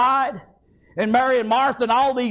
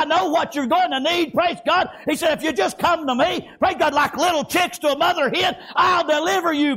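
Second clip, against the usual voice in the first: driving, rhythmic sermon cadence; fervent preaching. Acted. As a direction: preach it urgently, phrase after phrase. Preaches at full force.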